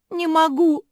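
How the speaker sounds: high, loud tearful wail; crying. Acted. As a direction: cry out through tears. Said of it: "заплакала мопсиха". (плачущий вскрик)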